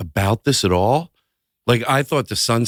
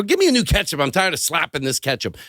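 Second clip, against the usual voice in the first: mock complaint; 4 semitones higher than usual. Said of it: "I go".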